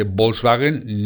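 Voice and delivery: Volkswagen with Spanish B and no K; wrong Spanish pronunciation. Shown as a demonstration. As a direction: say Volkswagen the common wrong way, bols-ba-gen. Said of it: "no se dice Volkswagen".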